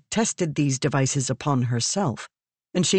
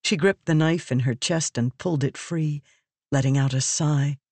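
usual speaking voice

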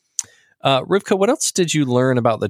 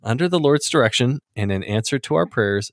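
amused grand reading; 3 semitones higher than usual. Acted. Rereading the quote to friends, laughing.

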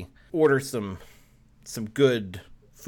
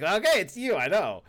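laughing; 8 semitones higher than usual. Acted. Continuing the Mario bit.

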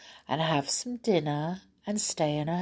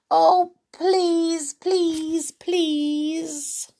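much higher, whiny begging; pleading child; 11 semitones higher, 3 dB louder, much slower than usual. Acted. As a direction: wheedle like a child who wants it badly.

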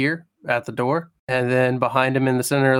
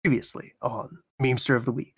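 deep narrator voice; 2 semitones lower, 5 dB quieter, faster than usual. Shown as a demonstration. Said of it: "Really deep narrator voice".

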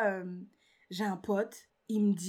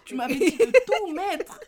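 louder, higher, laughing; laughing accusation; 8 semitones higher, 8 dB louder than usual. Retold or imitated. Reproaching the friend who said invest it all, laughing. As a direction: throw it back at him laughing. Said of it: "J'ai dit".

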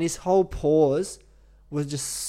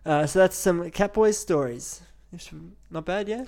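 slow, sing-song host voice; exaggerated cartoon intonation; slower than usual. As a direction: drag it out like a cartoon presenter. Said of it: "why are you talking like that".

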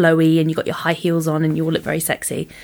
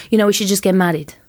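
quick proposal in a put-on foreign accent; lightly mimicked foreign accent; imitated non-English accent; faster than usual. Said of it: "I love doing accents".

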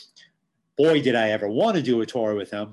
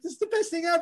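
excited; faster than usual. Retold or imitated. Retelling thrill of catching with Yankee.

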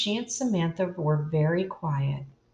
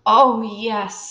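heartfelt; 4 semitones higher, 9 dB louder than usual. A narrator's reading. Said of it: "with her whole heart".

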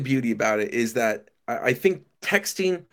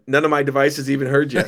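laughing; faster than usual. Real, not acted. Teasing about Boston accent.

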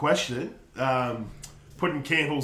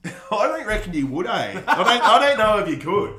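laughing; 6 semitones higher, 5 dB louder than usual. Real, not acted.

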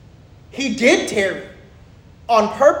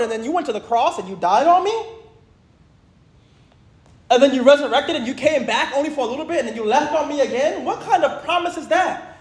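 incredulous questioning that climbs in pitch; hammed-up "abandoned follower" grievance; mock complaint; 3 semitones higher than usual. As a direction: lightly act a let-down disciple protesting. Acts disciples' complaint to Jesus.

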